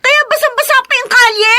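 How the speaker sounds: annoyed exclaim. Acted. Woman complaining to stranger about the soaked street, annoyed.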